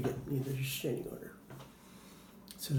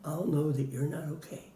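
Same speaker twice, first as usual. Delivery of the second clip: put-on gentle, softer, talking to a scared child; calm him down quietly; soft reassuring words; 5 dB quieter than usual. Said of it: "And I would say".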